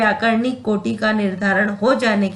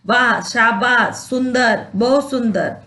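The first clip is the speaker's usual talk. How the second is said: praise. Shown as a demonstration. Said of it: "प्रशंसा".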